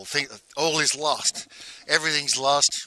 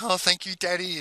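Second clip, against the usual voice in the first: higher, lightly voiced grateful child; pitched-up imitation of thankful kids; grateful children; 6 semitones higher than usual. Children thanking father, voiced in story.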